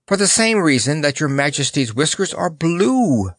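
high-pitched ready comeback; prompt reply. A narrator's reading. Clown answering the monarch's question, promptly. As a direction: answer straight back without hesitation. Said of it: "replied Notta promptly".

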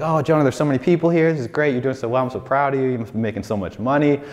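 high, fast, gushing mom imitation; excited mom. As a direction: play his proud mom, rattling off praise at high pitch. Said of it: "she was so excited".

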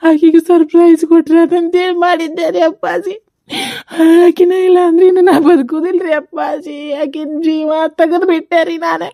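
grief-stricken, crying through the words; weeping self-blame; tearful confession. Acted. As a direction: sob out the guilt to father. Grieving son confesses blame to father.

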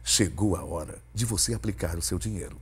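low, smooth ad-read voice; commercial voice. Shown as a demonstration. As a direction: sell it like a radio spot. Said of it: "Eu vou fazer uma voz aqui diferente pra um comercial".

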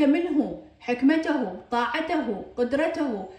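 منه، حكمته، طاعته، قدرته each ending in a sounded hu; voweled h endings. Shown as a demonstration. Teacher listing examples, منه، حكمته، طاعته، قدرته ending in hu. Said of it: "أريد أحركها ألفظها هاء".

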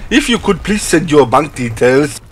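put-on Nigerian scammer accent; mock Nigerian accent. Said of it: "And then somewhere whisper".

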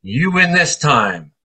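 slow, dramatic concession to the hornets; mock defeat. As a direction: give up like a movie villain, slowly. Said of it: "And I said".

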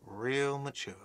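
soft sulky mutter. Acted. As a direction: grumble it under your breath. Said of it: "a whiny voice shouts".

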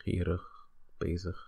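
gierig, bezig with each -ig as a weak "ukh"; reduced endings. Shown as a demonstration. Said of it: "basically turn it into ugh".

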